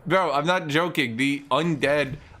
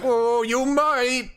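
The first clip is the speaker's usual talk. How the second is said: much higher, slow cartoon orc; squeaky orc voice; 11 semitones higher, 4 dB louder, much slower than usual. Orcs teasing the skeletons, much higher slow silly voice. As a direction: stretch it high and silly. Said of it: "They're like".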